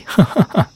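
a quick high mocking laugh; a burst of high laughter, then done; short high laugh. A dragon laughing at Mode, short high laugh.

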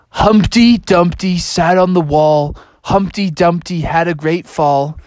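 egg reciting. Acted. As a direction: recite deliberately, climbing at the end. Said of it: "it was actually a big egg".

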